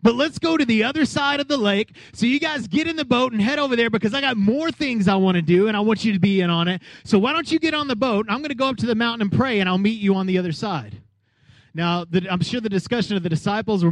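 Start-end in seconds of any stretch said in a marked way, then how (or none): 0.0-11.0 lightly voiced Jesus, casual and raised; a hint of a buddy-like Jesus rallying the guys; pitched up, easy and friendly. Preacher voicing Jesus to disciples.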